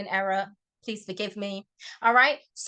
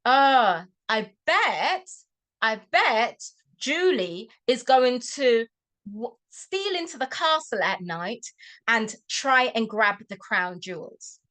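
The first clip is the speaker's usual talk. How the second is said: teasing slow suggestion; slower than usual. Shown as a demonstration. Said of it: "So how you can phrase this is".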